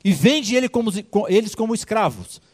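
king ordering guards to sell the servant's family. Acted. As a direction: give the guards a curt royal order. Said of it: "chamou os guardas e falou assim".

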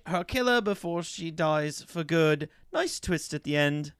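put-on British reading voice; affected British, playing at it; British accent. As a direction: read it like a mock British reviewer. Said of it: "keep doing British".

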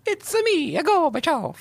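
very high, cartoon Italian accent; sing-out, hammed-up Italian accent; Gorbachev. Podcaster playing Gorbachev as an Italian, squeaky-high Italian accent. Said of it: "that was a great Italian accent".

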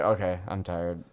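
low, soft and slow drowsy voice; barely awake, one eye open; sleepy friend. Retold or imitated.

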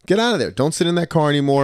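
mock-yell the advice to get out; mock yell at passenger. Conductor teaching students, mock yell to leave. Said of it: "I try to teach the students".

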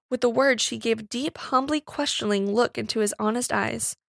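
usual speaking voice

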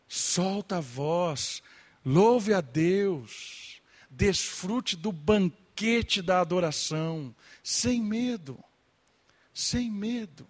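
fervent exhortation. Real, not acted. Climactic exhortation to worship.

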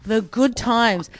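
mocking.

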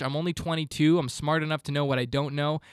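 usual speaking voice

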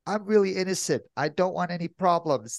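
a light, timid service-voice plea; toned-down customer service voice. Retold or imitated. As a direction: sound harmless and apologetic. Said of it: "I take it down a notch".

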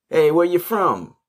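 high, drawn-out beggar's call; mock beggar. Retelling how beggars approach him, high mock call. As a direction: imitate the beggar hailing him, high and slow.

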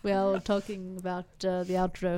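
hammed-up British host, amused; loose, joking British accent; put-on accent, British attempt. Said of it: "is that your best accent".

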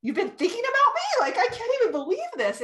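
retelling being moved to tears by a client's praise; retold teary disbelief. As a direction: squeak it out in overwhelmed disbelief. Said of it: "it was like crying".

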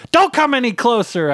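high, urgent shout; yelled warning. A narrator's reading. Husband keeps wife from the can, yelling. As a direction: warn her off at high pitch. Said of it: "I yelled".

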